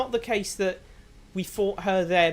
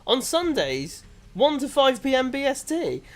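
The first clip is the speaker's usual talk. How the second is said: mock stream plug; 6 semitones higher than usual. Mock advert for their own stream.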